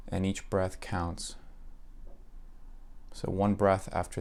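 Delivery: even, unhurried meditation voice with long pauses; calm, level delivery, letting each phrase settle; guided meditation. Acted. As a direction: guide the listener gently into relaxation.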